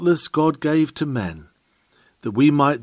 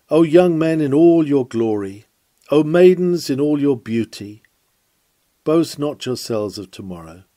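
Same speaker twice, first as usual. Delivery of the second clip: louder, grave appeal to the congregation; solemn and earnest; 4 dB louder than usual. Acted. Preacher warning the young men and maidens, solemn and earnest. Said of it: "very solemnly and earnestly".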